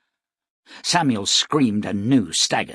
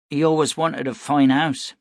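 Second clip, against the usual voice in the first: put-on child voice; 5 semitones higher, 5 dB louder than usual. Boy speaks of his father.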